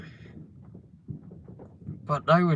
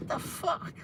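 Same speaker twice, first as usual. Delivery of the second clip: whispered disbelief; 8 dB quieter than usual. Retold or imitated. Retold aside in disbelief.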